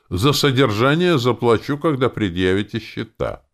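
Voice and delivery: character dialogue. Acted. Narrator voices a character's demand.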